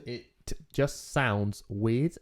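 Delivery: "It just sounds weird" very slowly, each final consonant released; over-pronounced consonants. Shown as a demonstration. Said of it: "pronounce them all".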